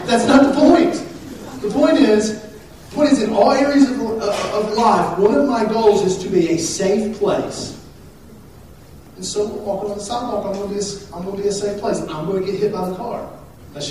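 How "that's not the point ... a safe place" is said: high, loud, insistent preaching; emphatic preaching. Real, not acted. Pastor explains his protective role on the sidewalk, emphatic preaching. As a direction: drive the point home, louder and higher.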